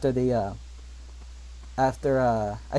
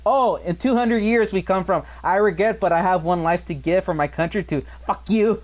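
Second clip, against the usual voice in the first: mock angry villain; 3 semitones higher than usual. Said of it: "like, so angry".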